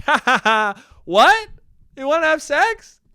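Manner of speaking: high, excited mock laugh into squeaky questions; over-eager flirt. Flirt blurting back at a crush, over-eager high voice. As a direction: pitch it way up, giddy and hopeful. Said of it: "And then I'm like".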